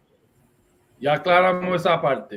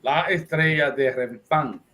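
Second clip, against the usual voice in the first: measured emphasis on "estrella"; stress on estrella. Shown as a demonstration. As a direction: set "estrella" apart, giving it deliberate weight. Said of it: "I'm emphasizing the word estrella".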